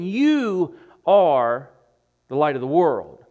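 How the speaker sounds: loud, firm declaration as Jesus; Jesus quoted. Retold or imitated. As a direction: announce it as a plain fact. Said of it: "He's saying".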